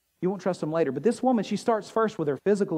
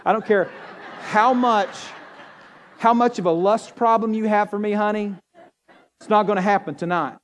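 laughing, louder tease; teasing wife laughing; 3 semitones higher, 4 dB louder than usual. Retold or imitated. Husband teasing his wife at bedtime, laughing and loud. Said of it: "what I tell my wife".

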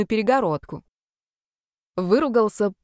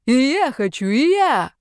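higher, louder frantic yelling; manic shout; 6 semitones higher, 5 dB louder, slower than usual. Acted. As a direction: yell like a wild madman. Crazy ghost bursts in laughing. (безумный высокий крик)

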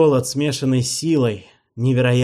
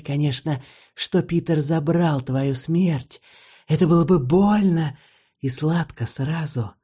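stern vampire; 4 semitones higher than usual. Acted. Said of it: "взглянул строго".

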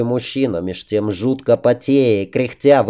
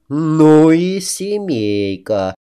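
exasperated; 4 semitones higher, much slower than usual. A narrator's reading. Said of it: "театрально закатила глаза".

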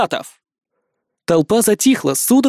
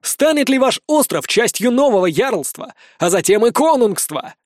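high, ringing question to a crowd; raised public oratory; rallying call; 7 semitones higher than usual. Acted. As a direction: challenge the crowd to follow. Leader rallies the crowd.

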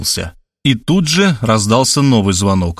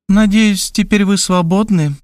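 Markhaleva's voice; 8 semitones higher than usual. A narrator's reading.

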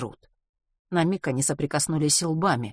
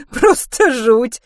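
laughing; 9 semitones higher, 11 dB louder, much slower than usual. A narrator's reading. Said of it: "Миссис Померой рассмеялась".

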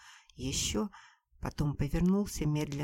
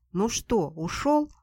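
louder, gloating question rising high; 6 semitones higher, 7 dB louder, slower than usual. Acted. Sister asks Nadya if he left, gloating and smirking. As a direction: savour his defeat with a smirk. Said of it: "злорадно улыбаясь".

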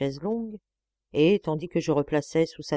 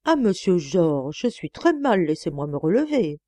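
put-on playful girlish tone; 5 dB louder than usual. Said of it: "je répondis d'un air gamin".

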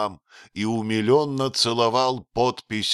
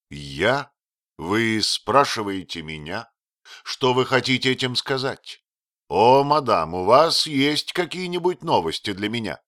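громко, взволнованно выкрикнуть; с нарастающим волнением, почти криком; вдруг крикнул; 4 semitones higher, 5 dB louder than usual. Acted. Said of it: "вдруг крикнул он". (выкрик в нетерпении)

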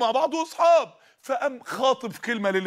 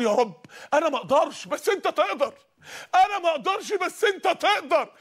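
retold tearful plea; 4 semitones higher than usual. Childless man praying to God after a hurtful remark, retold tearful plea. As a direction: plead to God, drawing out the repeat. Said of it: "قعدت اعيط وابص للسماء واقول".

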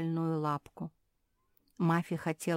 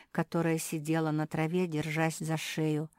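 plain reading voice

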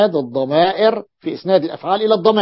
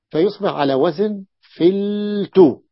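slow pattern recital; 2 semitones higher, slower than usual. Shown as a demonstration. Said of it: "teaching the pattern".

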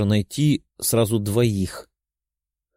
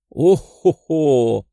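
triumphant; 2 semitones higher, 4 dB louder, much slower than usual. Acted. Character's gloating exclamation.

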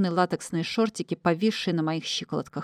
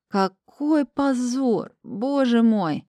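higher, very slow, drawn-out wail; mock anguish; 5 semitones higher, much slower than usual. A narrator's reading. Heroine wails in mock shame at herself. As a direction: stretch it out like a hammed-up lament. Narrator's own mortification.

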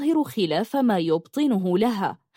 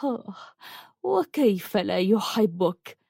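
tender; slower than usual. Acted. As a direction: gently soothe her. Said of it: "تمسح خدها بحنان".

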